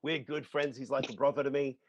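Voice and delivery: a light, slowed attempt at a British accent; a playful amateur British accent, unhurried. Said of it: "do your best British accent".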